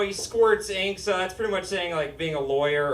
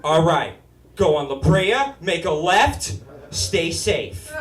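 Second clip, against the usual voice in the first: friend giving directions. Retold or imitated.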